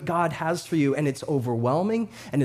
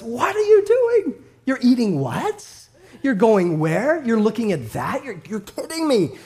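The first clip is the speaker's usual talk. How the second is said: parental shock, much higher; incredulous father; 5 semitones higher than usual. Acted. Father God voiced scolding.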